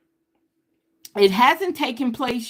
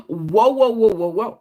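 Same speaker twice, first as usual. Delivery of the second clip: surprised gasp; 4 dB louder than usual. Real, not acted. Card reveal shocks the reader.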